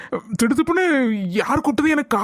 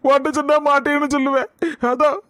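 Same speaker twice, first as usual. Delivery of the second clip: tearful father pleading with his daughter; crying. Acted. Father tells daughter he invited groom's family, crying. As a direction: voice choking as he confesses. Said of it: "இதுக்கு ஏன்பா அழுறீங்க?".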